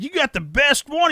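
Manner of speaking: high, loud retold blurt; mock loud exclamation. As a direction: call it out like the party loudmouth. Acted quote of loud blurting guest.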